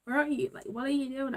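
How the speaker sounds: high, plaintive demand; acted-out bewildered complaint; mock impatient questioning. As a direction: question it like you've been left waiting. Acts out impatient questioning of God.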